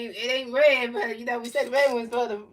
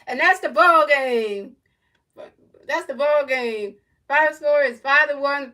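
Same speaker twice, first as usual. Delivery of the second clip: big final-out call; 3 semitones higher, 8 dB louder than usual. Shown as a demonstration. Fan announcing the game-ending strikeout to viewers, loud and excited. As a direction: belt the final out like a home-team announcer. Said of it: "I'ma say it like this".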